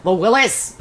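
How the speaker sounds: playful Scottish-tinged reading; lightly put-on Scottish brogue; Scottish accent. Shown as a demonstration. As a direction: say Willis with a Scottish lilt. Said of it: "That one's still Scottish".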